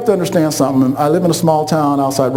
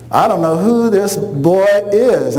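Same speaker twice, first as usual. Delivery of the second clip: stern mom disowning; 2 semitones higher, slower than usual. Retold or imitated. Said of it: "that's what my mom called us".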